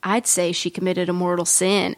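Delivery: low, mildly sultry line delivery; attempted sexy. Nurse answers the doctor about the shooting, mildly trying to sound sexy. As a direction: deliver it as a lightly attempted seduction. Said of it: "she tries to make it sexy".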